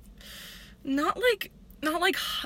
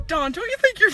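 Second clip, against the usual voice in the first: raised, high mock yell; quoted outburst; 9 semitones higher, 4 dB louder than usual. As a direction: belt the quoted line up high. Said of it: "And she goes".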